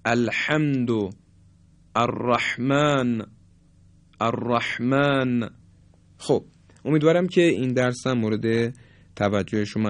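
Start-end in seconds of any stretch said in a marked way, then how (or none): 0.1-5.5 الحمد، الرحمن with a husky, tight ح; constricted ح. Shown as a demonstration. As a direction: squeeze the throat on ح in الرحمن and الحمد. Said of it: "اما حرف حا مثل". (الحمد و الرحمن با گرفتگی در ح)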